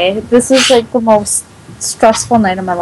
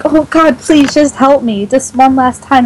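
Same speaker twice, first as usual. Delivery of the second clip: pitched-up imitation of begging; retold pleading; 3 semitones higher than usual. Imitating a friend asking one last time, mock pleading. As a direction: mimic a desperate plea, lightly hammed up. Retelling Luke begging once more.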